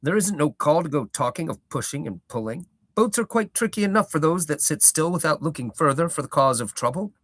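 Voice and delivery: old hobbit gardener, lightly voiced, proud; a touch of a rustic old gardener holding forth; Gaffer's voice.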